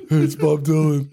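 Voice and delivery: another half-hearted try at a famous singer; a lightly put-on singer's voice; impression of a singer. Prank caller retrying the singer, lightly put-on. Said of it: "I can't do his fucking voice".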